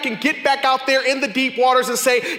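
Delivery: preaching at full force. Acted. Preacher retelling Peter's night to the congregation, at full force. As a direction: preach it out to the whole room.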